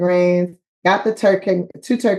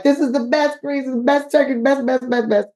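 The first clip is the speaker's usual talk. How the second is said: higher, gushing praise for the food; rave praise; 5 semitones higher than usual. Retold or imitated. Hosts raving about her leftover greens, lightly voiced high gush. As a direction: gush over the greens like a delighted host. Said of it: "They were like".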